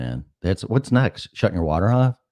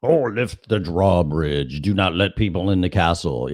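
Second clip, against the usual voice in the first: pompous king. Retold or imitated. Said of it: "the king going".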